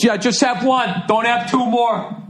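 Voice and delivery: high, slow mocking dad voice; mock dad advice. Mocking the father who tells him to stop at one, high and slow. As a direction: sneer out the advice, dragging it. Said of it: "then the guy goes".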